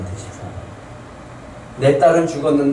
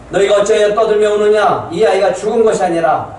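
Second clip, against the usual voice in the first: higher, louder rebuke; stern rebuke; 5 semitones higher, 3 dB louder than usual. Acted. Jesus rebuking the wailing mourners, stern voice. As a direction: rebuke the crowd firmly.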